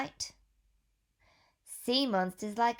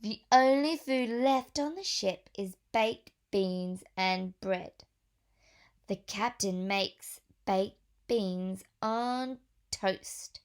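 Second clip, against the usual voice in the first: put-on reading to children. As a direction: clear storybook read-aloud voice. Reads picture book to children.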